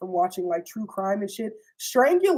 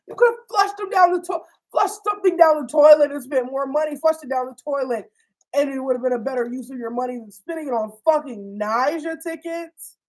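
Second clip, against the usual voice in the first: imitating livid girlfriend; 3 semitones higher, 4 dB louder than usual. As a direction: sneer at the waste of money. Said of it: "She was livid".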